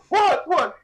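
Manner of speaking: sharp, high bewildered "What?"; confused waking. Retold or imitated. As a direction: play a dazed man just woken. Sleepwalker Todd waking up confused.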